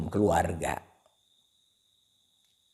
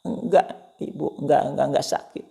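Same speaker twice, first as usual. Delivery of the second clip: 1 son insisting; 6 semitones higher, 4 dB louder than usual. Acted. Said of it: "mother asks, son denies".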